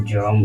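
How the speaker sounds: ᱡᱚᱢ as one syllable, "jom"; pronunciation demo. Shown as a demonstration. Teacher blending spelled letters for learners, ᱡᱚᱢ said as "jom". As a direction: say ᱡᱚᱢ with a held o closing on m. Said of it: "ᱩᱪᱪᱟᱨᱚᱱᱚᱜ ᱠᱟᱱᱟ".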